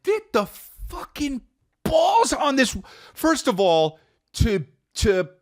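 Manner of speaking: put-on high, slow squeaky old lady voice; mock old lady rant. Mimicking the old driver yelling at him, squeaky and slow. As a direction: squeak it out like a cranky old woman.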